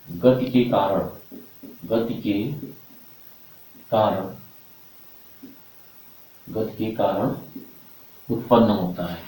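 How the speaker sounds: slow, with long pauses between phrases; word-by-word dictation pace. Shown as a demonstration. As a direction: dictate slowly for students to copy down. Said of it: "तो लिखेंगे आप voice".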